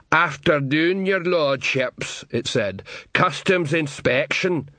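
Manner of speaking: slow, ponderous troll official. Acted. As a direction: drag out the formal greeting.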